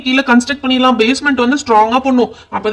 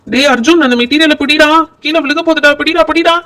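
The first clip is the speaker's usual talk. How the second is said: loud warning to catch it, pitch rising; urgent call; 3 semitones higher, 5 dB louder than usual. Acted. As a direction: shout across to catch the falling piece. Warning friend about falling material.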